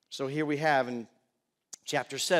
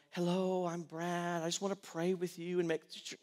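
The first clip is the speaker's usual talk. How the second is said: soft, timid bedside voice, put on; hushed, sugary mock-pastoral greeting; mock gentle pastor; 8 dB quieter than usual. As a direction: parody a meek hospital visitor, very softly. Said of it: "not the time to go into the hospital and go".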